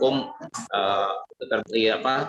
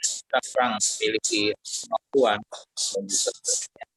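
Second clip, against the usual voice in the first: choppy call audio, words dropping out; broken video-call connection; voice breaking up. Real, not acted. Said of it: "Suaranya putus-putus".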